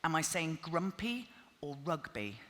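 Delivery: each word shaped slowly for lip reading; over enunciating. Shown as a demonstration. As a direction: mouth grumpy and rugby slowly and clearly. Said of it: "read my lips".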